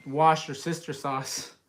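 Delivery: "wash your sister sauce", slow and deliberate; meme mispronunciation. Retold or imitated. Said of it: "there was a TikTok earlier that was".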